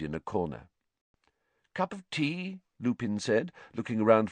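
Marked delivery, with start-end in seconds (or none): 1.7-2.6 soft, higher, rising offer; friendly offer. A narrator's reading. Teacher looking for his kettle, gentle offer. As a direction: offer it lightly and kindly.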